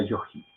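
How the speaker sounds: "yogi" pronounced "yoji", with a Spanish jota. Shown as a demonstration. Teacher concluding how Hispanics would read it, jota sound in yogi. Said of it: "ahí la G suena como G".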